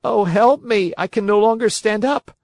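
put-on pleading boy voice, pitched high; a frightened boy begging for help. Boy's cry for help.

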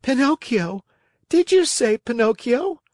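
high-pitched, eager little voice; excited high storybook boy voice; startled puppet boy. A narrator's reading. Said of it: "jumping to his feet".

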